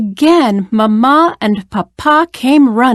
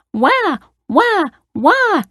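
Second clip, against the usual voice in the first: put-on high-pitched little girl wail; mock crying; 9 semitones higher, slower than usual. A narrator's reading. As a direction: imitate a child's wah-wah cry. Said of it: "cried the little girl".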